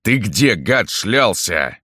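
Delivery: understated fury at a henchman; angry scolding. A narrator's reading. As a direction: lay into an underling, drawing it out. Pareika furiously scolds Zhora.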